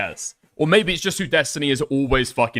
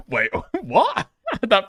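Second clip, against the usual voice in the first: laughing; 8 semitones higher, slower than usual. Real, not acted. Laughing at the Minecraft claim.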